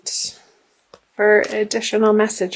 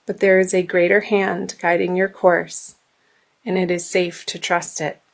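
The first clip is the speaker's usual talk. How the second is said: earnest guidance card reading; reading aloud. Acted. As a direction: read it like a spiritual message. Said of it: "I will read to you".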